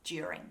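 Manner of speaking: "During" as joo-ring; "During" with D softened into J; easier chewy D. Shown as a demonstration. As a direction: begin "During" with a J sound. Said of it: "just a little bit easier".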